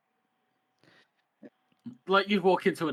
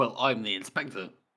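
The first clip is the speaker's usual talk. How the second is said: plain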